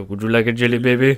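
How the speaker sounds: a light take on Tom Baker's Doctor; lightly voiced Tom Baker offering sweets; Tom Baker impression. Fan lightly imitating Tom Baker's Doctor for friends. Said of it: "hear Tom Baker's voice go".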